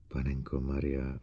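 Bogert's shocked exclamation slipping out. A narrator's reading. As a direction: let it slip out under your breath. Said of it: "uklouzlo Bogertovi".

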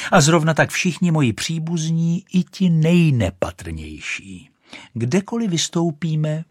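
lightly voiced proud rocket; a hint of a haughty lady boasting; vain rocket. Rocket boasting of her family. (lehce naznačená pyšná raketa)

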